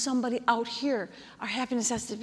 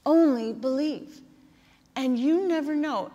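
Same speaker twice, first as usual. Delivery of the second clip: impassioned preaching; 3 semitones higher than usual. Acted. Preaching, raised emotional build.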